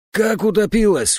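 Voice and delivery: put-on old man's horrified outcry; horrified cry. A narrator's reading. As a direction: cry it out in shock. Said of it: "в ужасе вскричал".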